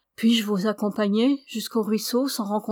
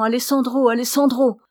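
a father's anguished cry of a name, a bit louder; terrible cry; 4 semitones higher, 5 dB louder than usual. Retold or imitated. Dying father crying out for his absent son, anguished call. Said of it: "d'une voix terrible".

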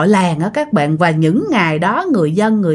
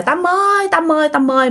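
calling out; 7 semitones higher than usual. Retold or imitated. Friends search for missing girl at temple, calling out. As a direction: imitate calling a lost friend, without real volume. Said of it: "Lúc đó bắt đầu kêu quá trời".

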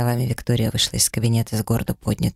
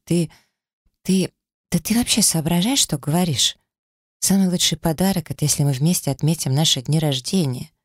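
indignant; 5 semitones higher than usual. A narrator's reading. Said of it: "в негодовании взмахнула руками".

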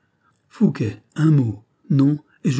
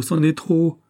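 c'en est trop cried out higher; overwhelmed cry; 6 semitones higher, 3 dB louder, slower than usual. Acted. Fouquet overcome by her devotion, crying c'en est trop higher. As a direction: break out, overcome. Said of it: "s'écria Fouquet".

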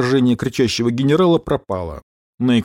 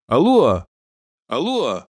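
call; slower than usual. Acted. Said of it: "крикнул Гера".

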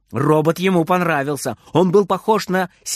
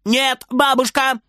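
put-on high, drawn-out child's call; slow, high shouted reply; shouting back; 9 semitones higher than usual. A narrator's reading. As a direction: call back to another room. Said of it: "кричит Фридер в ответ".

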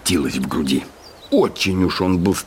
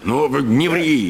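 slower, sharp and irritated; annoyed interruption; 7 semitones higher, slower than usual. A narrator's reading. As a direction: cut him off in vexation. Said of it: "с досадой перебил Чертопханов". (досадливо)

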